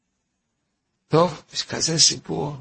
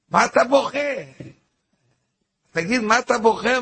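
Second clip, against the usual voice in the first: surprised question; 8 semitones higher than usual. Retold or imitated. Stranger quoted asking why crying.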